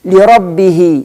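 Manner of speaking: سجد الطالب linked as "sajadat-taalibu", measured out for writing; teacher dictating سجد الطالب لربه; dictation to a pupil. Shown as a demonstration. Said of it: "تقول اكتب".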